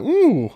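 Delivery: high, mock-impressed ooh; imitated ooh. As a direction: let out a quick high ooh as the player would. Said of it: "You're like".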